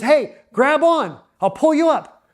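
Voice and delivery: high, slow call down the cliff. Retold or imitated. Man on the clifftop calling down to the hanging guy, high and drawn out. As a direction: stretch the words out to reach him below.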